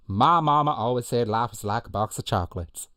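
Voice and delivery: loud start, easing toward the end; movie quote impersonation. Acted. Host repeating a favourite film line for players, character voice. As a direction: launch the film line boldly, then settle. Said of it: "I'm gonna do that one for you again".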